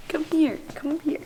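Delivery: high coaxing call to the dog. Real, not acted. Calling dog over.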